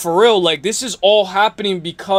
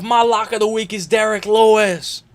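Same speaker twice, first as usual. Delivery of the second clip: usual speaking voice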